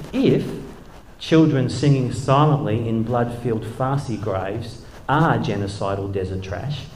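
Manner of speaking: measured, deliberate recital; solemn poetry reading; poem reading. Acted. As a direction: read the poem with weight. Reads his poem aloud.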